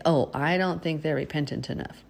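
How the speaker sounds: mildly sanctimonious doubt; lightly mock someone judging another's apology; judgmental. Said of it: "to judgmentally say".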